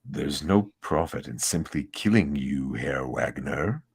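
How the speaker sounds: villain voice. Acted. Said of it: "I leaned in too far to the microphone for this voice".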